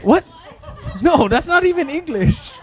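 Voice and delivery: incredulous laugh at a silly answer; laughing disbelief. Real, not acted. Laughs at co-host's Tagalog answer.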